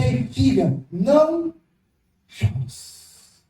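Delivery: gentle call fading to a breathy hush; tender hushed comfort. Acted. Jesus soothing the grieving woman, tender and hushed. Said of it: "Jesus tava dizendo assim".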